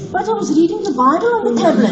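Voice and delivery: hurried, lightly acted self-defence; defensive excuse. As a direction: plead your case in mock innocence. Retold excuse to her mother.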